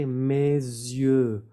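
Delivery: Mes yeux with a clean Z link; French liaison. Shown as a demonstration. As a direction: model mez-yeux clearly. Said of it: "Y que sea bien la Z".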